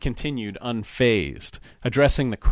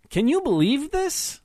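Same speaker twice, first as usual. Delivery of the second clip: put-on higher, slurred drunk's voice; husband needling his wife's old fiancé, slurring drunkenly. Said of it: "said in a slurred accent".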